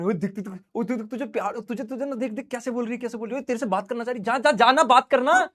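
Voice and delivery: excited mock urging, words tumbling out; egging-on friend. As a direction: play the pal goading a shy friend. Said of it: "अब दोस्त क्या करें".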